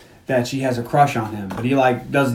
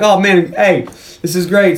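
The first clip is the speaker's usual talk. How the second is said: happy relief; 3 semitones higher, 3 dB louder than usual. Retold or imitated. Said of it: "He's like".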